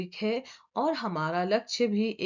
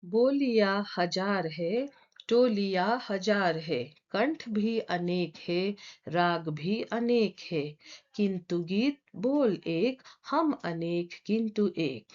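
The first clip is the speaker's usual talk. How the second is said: measured verse reading; poem recitation. Acted. Teacher reading the next stanza before explaining it, measured recitation. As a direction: recite the stanza in even, separate phrases.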